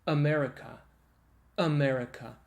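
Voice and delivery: "America" started from closed vocal folds; a light glottal catch before "America"; glottal onset. Shown as a demonstration. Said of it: "and then you say".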